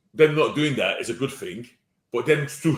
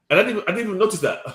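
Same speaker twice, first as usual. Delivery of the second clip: laughing; 8 semitones higher, much faster than usual. Real, not acted. Laughing at own obliviousness.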